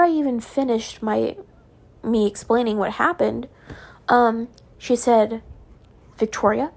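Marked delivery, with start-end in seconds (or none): 6.2-6.7 word by word, long menacing pauses; retold snapping. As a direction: imitate a teacher's controlled snap, unraised voice. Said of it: "She had never snapped at me like that".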